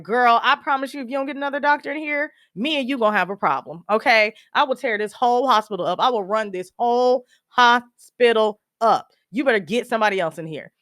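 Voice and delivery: emphatic acted warning, slowing on the threat; threatening. Daughter warning the doctor to get someone else, threatening. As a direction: lay down the law in a retold showdown.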